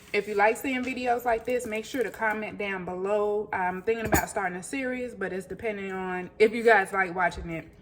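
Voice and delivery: talking with her mouth full. Real, not acted. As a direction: speak around a mouthful of food. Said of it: "Excuse me for talking with my mouth full".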